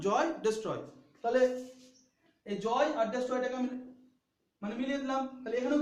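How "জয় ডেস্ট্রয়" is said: জয় ডেস্ট্রয় paired to show the shared "oy" ending; teacher matching জয় with ডেস্ট্রয় by ear; rhyme demonstration. Shown as a demonstration. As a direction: sound out জয় and ডেস্ট্রয় as a rhyme, falling at the end. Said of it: "মিলছে না?".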